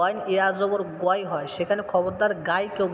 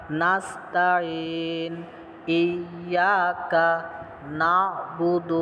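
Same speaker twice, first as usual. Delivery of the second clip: very slow, drawn-out Quranic recitation; much slower than usual. Shown as a demonstration. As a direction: recite it slowly for the class to follow. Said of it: "আমার সাথে সবাই বলার চেষ্টা করবেন". (ধীরে তিলাওয়াত, সবাই একসাথে)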